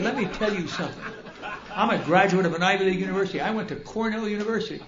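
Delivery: indignant retort. Retold or imitated. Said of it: "I went off on it".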